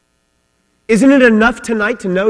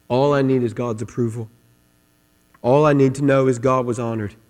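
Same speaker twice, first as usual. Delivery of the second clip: reverent trust; 3 semitones lower, 4 dB quieter than usual. Acted. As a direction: voice David's quiet relief before God. Voicing David's reassured trust in God.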